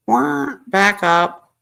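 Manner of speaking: slow, stunned "wah, back up"; shocked. Real, not acted. Shocked by the text about little girls, slowly stunned. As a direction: stop and back up in disbelief.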